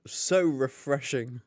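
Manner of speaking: slow breathy ad whisper; mock advert tagline, whispered. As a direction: whisper it like the tagline of a drinks commercial. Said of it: "my audition for the, my advert".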